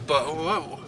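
jolted by a speed bump; on a bumpy road. Real, not acted. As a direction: voice jolted going over a bump. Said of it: "speed bump".

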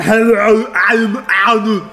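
slow, drawn-out lightly voiced Arnold; slow mocking Arnold voice; cheesy Arnold impression. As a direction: stretch it like a bad impressionist. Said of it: "the people are like".

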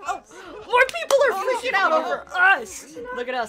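loud, high, thrilled outburst; excited shouting. Real, not acted. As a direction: crow about it at full voice. Thrilled at being treated as celebrities.

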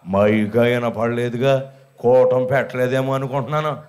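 slow, low grumbling village grandma; old woman's voice. Retold or imitated. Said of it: "అంది".

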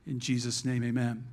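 low, hushed prayer; closing prayer. Real, not acted. Pastor closing a prayer to the Holy Spirit, low and reverent.

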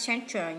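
center stressed on the first syllable, CEN-ter. Shown as a demonstration. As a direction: put the weight on CEN in center. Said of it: "nhấn âm một".

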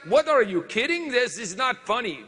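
can't believe the count; shocked disbelief. Retold or imitated. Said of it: "We are like".

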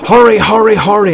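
high, loud frantic urging; urgent exclamation. A narrator's reading. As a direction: shout to hurry the coaches along. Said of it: "exclaimed Montague to the coaches".

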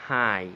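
"ห่าย" called out loud for repeating; loud teacher's model of "ห่าย"; pronunciation demo. Shown as a demonstration. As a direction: say "ห่าย" loudly as a model for learners. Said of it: "ออกเสียงพร้อมกัน".

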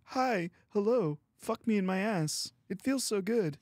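camp it up in a silly high voice; hammed-up seductive greeting; mock sultry voice. Mock sexy voice intro bit.

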